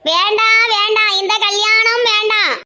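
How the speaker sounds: keen the refusal like a dirge; wailing lament. Acted. Mother-in-law lamenting the wedding.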